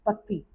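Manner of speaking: पत्ती said with no final t; पत्ती ending on the vowel, t kept silent; French petit. Shown as a demonstration. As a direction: stop the word before the t: पत्ती. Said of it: "यहीं तक रुक जाना है".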